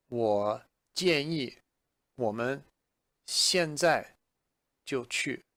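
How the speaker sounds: "我建议我们现在就去" slowly, word by word; slow model sentence. Shown as a demonstration. Teacher models the sentence for learners, slowly. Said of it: "So I might say".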